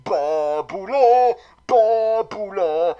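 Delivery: "Babula" drawn out slow and loud, pah-boo-lo; mock name twist. Mocking the writers' villain Barbara, "Babula" slow and loud. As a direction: stretch "Babula" slowly like a mock pet name.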